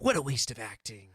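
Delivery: lightly voiced, low, self-serious action star; a hint of a stern martial-arts star scolding; calm, menacing tough guy, lightly done; Steven Seagal impression. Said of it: "I'm definitely going to be Steven Seagal".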